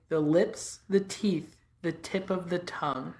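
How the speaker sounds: steady tongue-twister warm-up drill; vocal warm-up. Shown as a demonstration. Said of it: "You go, you say".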